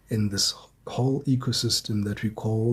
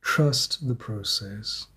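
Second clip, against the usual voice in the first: calm and slow; 2 semitones lower, slower than usual. Real, not acted. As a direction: echo it gently, unhurried. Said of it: "But Spirit is saying".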